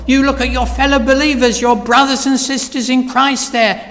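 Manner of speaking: ordinary delivery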